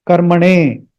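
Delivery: slow karmane with the N curled back; retroflex N. Shown as a demonstration. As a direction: curl the tongue for the N in karmane. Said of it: "retroflex N".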